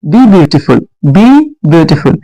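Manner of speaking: very slow, word by word; dictating to a class; slow dictation. Shown as a demonstration. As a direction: spell it out slowly for students. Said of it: "teacher dictating slowly".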